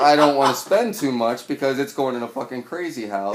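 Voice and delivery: loud, half-laughing thought to himself; laughing inner thought. Retold or imitated. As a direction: laugh through the absurd thought.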